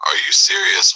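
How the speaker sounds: high, squeaky are you serious; incredulous. Acted. Exasperated man asking in disbelief, very high. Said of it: "his entire expression just screaming".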